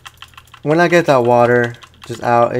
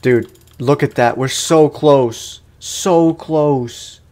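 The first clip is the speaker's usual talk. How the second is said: frustrated excitement; 4 semitones higher, 4 dB louder, much slower than usual. Real, not acted. Nearly beating the boss.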